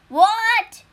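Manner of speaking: high loud startled cry; shocked cry. Acted. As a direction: blurt it out in shock. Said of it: "cried the tiger immortal".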